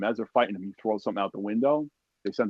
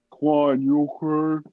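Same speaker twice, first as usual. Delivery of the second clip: raised, louder retold call; 5 semitones higher, 5 dB louder, much slower than usual. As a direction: call across to check on a man down. Lieutenant calls through the smoke.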